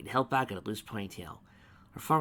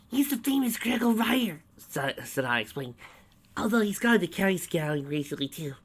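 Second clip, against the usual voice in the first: high, loud bubbly ditz; chirpy Sonata; 9 semitones higher, 6 dB louder than usual. A narrator's reading. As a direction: blurt facts brightly.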